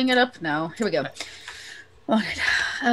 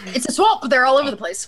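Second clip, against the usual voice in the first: emphatic repeat; 4 semitones lower than usual. Acted. Scout repeating the swamp news to a confused companion, emphatic. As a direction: say it up and clear. Repeats after "Wait, what?.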